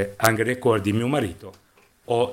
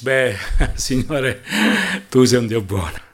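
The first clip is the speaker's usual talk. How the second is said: mock wheedling; 4 dB louder than usual. Anna bargains with the Lord, chuckling and wheedling. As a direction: act out sweet-talking the Lord, with a little laugh.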